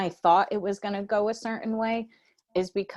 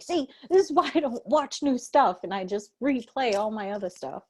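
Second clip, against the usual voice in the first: lightly raised, half-joking complaint; mock grumbling; 5 semitones higher than usual. Friend explaining why she rewatches old shows, light mock grumble. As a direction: sulk about new movies, a touch high. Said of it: "I was like".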